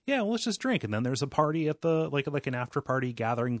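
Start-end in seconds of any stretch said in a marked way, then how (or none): 0.1-0.8 mock reasoning. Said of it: "And I was like".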